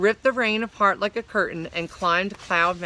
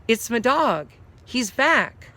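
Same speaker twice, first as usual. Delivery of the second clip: higher, thrilled; excited; 4 semitones higher than usual. Acted. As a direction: burst out with joy.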